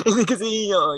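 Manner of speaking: high laughing burst before words. Real, not acted. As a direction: laugh it off, embarrassed. Laughs at own admission. (tawang nahihiya)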